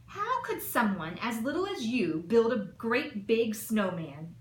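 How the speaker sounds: put-on lightly booming, scoffing at the little girl; big blustery voice. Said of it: "had big blustery voices".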